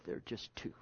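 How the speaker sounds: soft unvoiced whisper. Real, not acted. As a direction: breathe it like an intimate secret. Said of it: "When I'd whisper the words".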